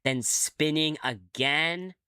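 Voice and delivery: measured, lightly dramatic game narration; story narration. Acted. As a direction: tell it like an unfolding strange dream. Reads game narration aloud.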